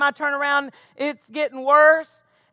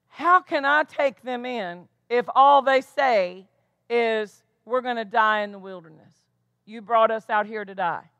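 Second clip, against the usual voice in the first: God's reply; 3 semitones lower than usual. Retold or imitated. God answering the complainers.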